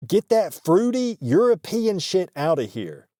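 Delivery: hammed-up indignant local; mock rural scorn. Voices disgusted rural customers.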